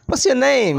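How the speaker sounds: "What's your name" run together as one word; connected speech. Shown as a demonstration. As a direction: link "What's your name" quickly without gaps. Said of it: "So that is a bit fast".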